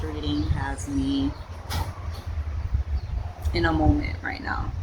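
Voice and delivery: hushed unvoiced whisper. Real, not acted. Vlogger whispers to viewers about a gripping chapter, hushed. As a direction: breathe it out like a secret. Reader overwhelmed by the book.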